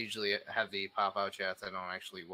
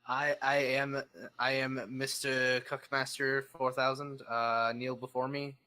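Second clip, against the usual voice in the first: booming demon lord; 3 semitones higher, slower than usual. Pretend. Declares himself, orders kneeling.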